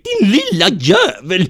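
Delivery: high, loud, slow angry yell. Acted. A man yelling at Kurt as he grabs for him. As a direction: bark it at the runaway. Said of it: "Han skrek".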